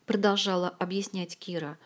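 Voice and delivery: ordinary delivery, nothing marked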